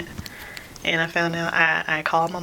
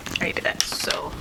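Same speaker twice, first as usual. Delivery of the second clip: whispering; 4 dB quieter than usual. Real, not acted. Quiet aside while doing makeup.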